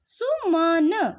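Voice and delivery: सुमन drawn out very slowly; teacher demonstrating the sound. Shown as a demonstration. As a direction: stretch सुमन so the short u is heard. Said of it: "sound क्या थोड़ा दबता है".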